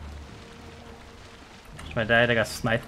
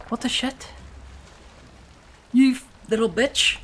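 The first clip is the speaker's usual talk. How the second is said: furious yelling; 9 semitones higher than usual. Real, not acted. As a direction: curse them off, shrieking. Yelling at attacking water creatures.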